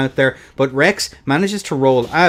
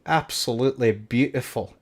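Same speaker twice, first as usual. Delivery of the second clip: quiet admiration; 2 semitones lower, 6 dB quieter than usual. Real, not acted. Repeats praise, softer first.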